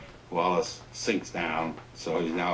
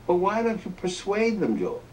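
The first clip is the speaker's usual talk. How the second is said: much higher, louder sly coaxing voice; hammed-up Johnson coaxing; 13 semitones higher, 4 dB louder than usual. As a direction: tease him into it.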